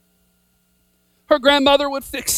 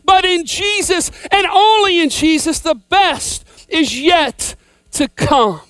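preaching at full force; 4 semitones higher than usual. Acted. Preacher exhorting the church to hold on to faith, rousing. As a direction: drive it home to the congregation.

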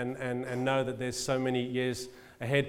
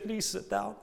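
gentle request; 4 semitones higher, 7 dB quieter than usual. Retold or imitated. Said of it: "She said".

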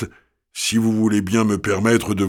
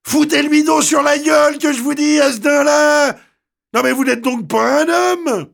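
put-on hoarse Paris street girl, much higher, shouting; hoarse working-class voice. The girl turns on the young man, hoarse, shouting. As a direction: snap back like an angry faubourg girl. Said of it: "d'une voix enrouée et faubourienne".

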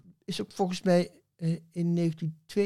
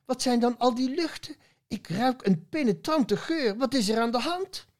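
a higher, fussy village parson sniffing smoke; alarmed parson; 8 semitones higher than usual. Acted. Parson smelling something burning in the poem, fussy higher voice. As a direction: lift into a prim, worried parson's voice.

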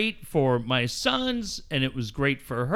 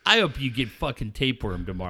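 mock anger; 4 semitones lower than usual. Real, not acted. Mock outrage at cohost's joke.

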